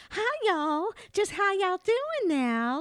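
put-on high, slow, syrupy Texan accent; mock Texan woman. Mocking an aggravating society lady, high Texan twang. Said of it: "I don't like women with Texan accents".

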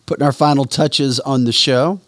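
talking while chewing gum; words around a piece of gum. Real, not acted. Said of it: "I was trying to talk with gum in my mouth".

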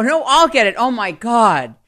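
high, loud sibling squabble; sister insisting. Retold or imitated. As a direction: fight for the phone, then despair. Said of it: "my older sister would go".

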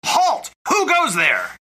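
sharp guard's cry of halt; alarm shout. Acted. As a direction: bark it like a castle guard. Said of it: "The guards yell".

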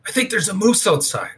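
high-pitched mock yell at no real volume; imitated yelling. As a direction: imitate a hunting partner raising the alarm. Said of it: "Jeff's yelling at me".

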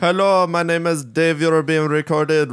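put-on phone greeting; mock prank caller. Pretending to open a prank call, mock caller voice.

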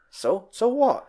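high mock scoffing Walter; imitating Walter waving it away; Walter dismissive. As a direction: brush it off with a scoff. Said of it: "And was like".

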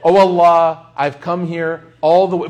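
loud, exasperated plea to Allah; mock exasperated cry. Preacher retelling being bumped, loud mock exasperation. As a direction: cry out to Allah, fed up but half joking. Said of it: "I'm like, in my moment".

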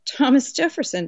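lightly amused question, pitched high. A narrator's reading. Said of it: "Nathaniel asked through a laugh".

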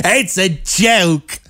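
high, very slow mock British accent; fake British accent. Host mimicking the singer's joke line, fake British accent. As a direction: drag it out high in hammed-up British. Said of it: "that kind of fake British accent".

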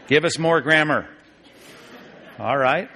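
normal talking voice

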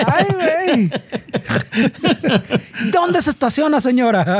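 giggling through a mock question; laughing. Real, not acted. Teasing friends, laughing through the question. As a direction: laugh while asking.

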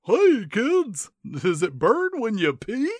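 high squeaky cartoon mascot voice; sing-song cartoon mascot; bright squeaky sing-song welcome. Mascot voice again, different take.

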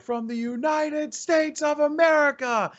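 arena announcer. Retold or imitated. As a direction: belt it out to an arena crowd. Reenacts announcing Cloud Nine.

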